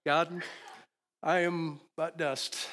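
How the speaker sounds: slow lead-in, then "but dust" joined as one phrase; the other emphasis. Shown as a demonstration. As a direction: pause after "God", slowly land on "but dust" together. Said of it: "read it the other way".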